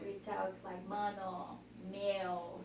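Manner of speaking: lightly voiced São Paulo street slang, low and easy. Shown as a demonstration. Demonstrating São Paulo slang for a visitor, lightly voiced. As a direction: toss off mano, meu like a São Paulo local. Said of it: "like this".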